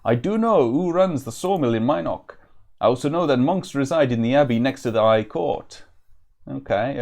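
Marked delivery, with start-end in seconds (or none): 0.0-5.8 proud woodsman in a put-on Welsh-ish accent; proud, vaguely Welsh. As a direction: add it with a touch of pride, vaguely Welsh. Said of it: "he adds proudly".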